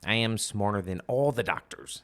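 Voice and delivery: bad Trump voice, Bond villain style; cartoonish Trump impression. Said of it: "terrible, terrible Trump impression".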